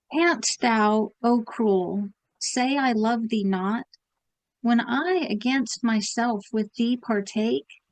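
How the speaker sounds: even, formal sonnet reading; measured recital; poem recitation. Acted. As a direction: read the verse with care.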